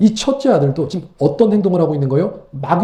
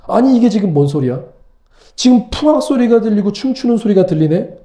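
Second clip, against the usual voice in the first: puzzled exclamation; 3 semitones higher than usual. Acted. Older brother hears party music.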